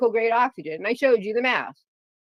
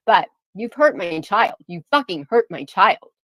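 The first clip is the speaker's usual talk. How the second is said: angry; 3 dB louder than usual. Real, not acted. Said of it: "And that's why I'm pissed".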